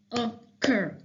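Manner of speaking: "Occur" in two separate beats, oc, cur; split into syllables. Shown as a demonstration. Teacher showing students two syllables, "Occur" said in two beats. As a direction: break "Occur" apart at the syllable boundary. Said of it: "That's what two syllables are".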